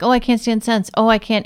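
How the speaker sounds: hammed-up weary protest; mock fed-up complaint. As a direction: imitate someone who can't stand scents. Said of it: "makes them be like".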